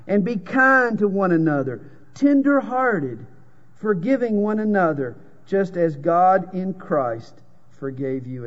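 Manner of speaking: lifted and slowed, leaning on the key words; a lightly heightened sermon reading; preaching scripture. Acted. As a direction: preach the verse with rising fervor. Reads scripture with fervor.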